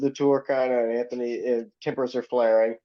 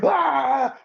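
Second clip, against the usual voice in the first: retold scream; 11 semitones higher than usual. Bandmate retelling a tour blow-up, mock scream. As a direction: imitate a scream, pitched way up. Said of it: "screams at him".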